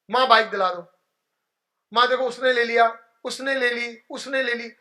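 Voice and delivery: a light imitation of a boy whining to his mother; mock child nagging. A son nagging his mother for a bike, lightly imitated whine. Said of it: "ऐसे करता था".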